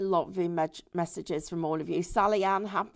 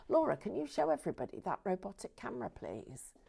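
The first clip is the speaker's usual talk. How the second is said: whisper; 8 dB quieter, faster than usual. Real, not acted. Whispered aside to camerawoman.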